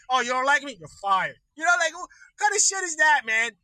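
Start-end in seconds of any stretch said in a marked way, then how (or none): 0.1-1.4 sneering boss dropping the axe; lightly voiced dismissive boss; mock Trump. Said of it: "That's what he does".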